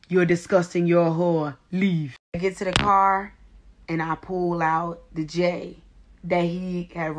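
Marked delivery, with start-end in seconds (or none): 0.1-2.2 put-on measured, cold dismissal in African accent; calmed-down African lady. African lady dismissing the woman, calm African accent. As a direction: drop the yelling and judge her evenly, African accent. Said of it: "This bitch calmed all the way down".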